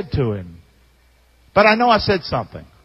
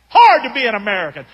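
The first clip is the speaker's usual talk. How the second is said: mocking echo; 3 dB louder, faster than usual. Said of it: "I didn't talk like that, though".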